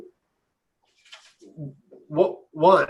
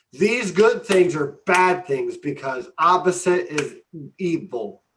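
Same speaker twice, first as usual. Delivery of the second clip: higher-pitched mock warning, dropping onto "evil"; funny mocking imitation; 3 semitones higher than usual. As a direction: mimic his muddled logic in a funny way. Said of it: "if it sounded funny the way I said it".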